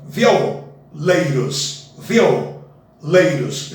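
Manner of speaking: slow "Violeiros" with vi and o merged; elided pronunciation. Shown as a demonstration. Teacher to students showing the elision, slowly. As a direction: glide "violeiros" into three sounds. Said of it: "fazendo a elisão".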